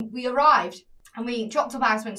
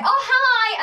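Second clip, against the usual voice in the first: much higher, louder startled hi; surprised greeting; 12 semitones higher, 7 dB louder than usual. Retold or imitated. Greeted in English by the waiter: high, startled hi. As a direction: squeak out a surprised hello. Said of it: "I was like".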